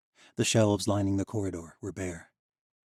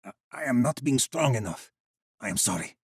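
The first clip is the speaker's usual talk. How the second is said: lightly voiced fairy; 4 semitones higher, 3 dB louder than usual. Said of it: "a cry of exasperation".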